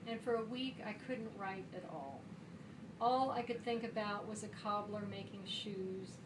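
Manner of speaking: steady recital in long, flowing phrases; measured verse reading, evenly sustained; poetry reading. Acted. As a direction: read your poem aloud to a room, carrying each line through. Reads own poem aloud.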